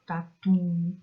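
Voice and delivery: "tatu" with a strong, held TU; stressed last syllable. Shown as a demonstration. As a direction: push and stretch the final TU of "tatu". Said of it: "sílaba tônica está na última".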